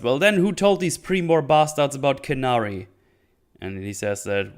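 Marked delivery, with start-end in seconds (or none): 0.0-2.9 mock angry yell, higher pitch; raised-voice outburst, retold. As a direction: imitate her heated demand, only moderately louder. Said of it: "then she yells".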